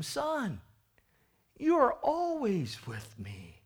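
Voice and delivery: slow, building to loud father's cry; father rising to joy; slow father swelling to a shout; pleading father. Acted. Father's loving answer voiced.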